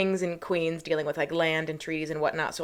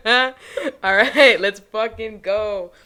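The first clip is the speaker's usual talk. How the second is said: loud, slow, drawn-out let's go; hype intro; 3 semitones higher, 8 dB louder, much slower than usual. Real, not acted. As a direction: hype the crowd before the story starts. Hyping up the episode.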